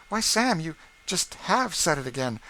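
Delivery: amused exasperation; mistress exasperated. A narrator's reading. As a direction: catch him in the act. Mistress catches him.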